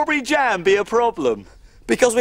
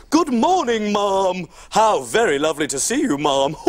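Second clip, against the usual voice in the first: mock royal greeting; 4 semitones lower than usual. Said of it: "I must practice my bowing".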